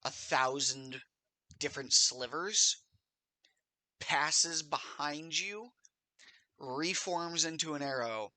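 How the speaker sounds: measured scene-setting with vocal sound effects; game master narration. Acted. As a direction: narrate the arrow's flight in pieces, pausing for suspense, acting out twing and thunk. Game master narrates the arrow attack.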